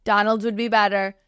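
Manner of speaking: barely-there impression of a famous businessman-president; lightly voiced Trump, hands-out confident pitch; a faint hint of Trump's cadence; Donald Trump impression. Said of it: "I have such a bad impression of him".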